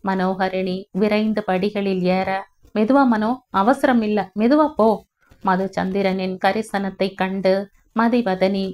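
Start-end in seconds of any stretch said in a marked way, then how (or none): 2.8-4.9 rising, louder call after her on the stairs; calling out gently. Acted. Husband calls after his wife on the stairs, rising worried call.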